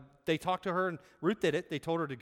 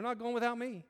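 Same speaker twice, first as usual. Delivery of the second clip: retold protest; 10 semitones higher than usual. Wife's retold protest at being left out.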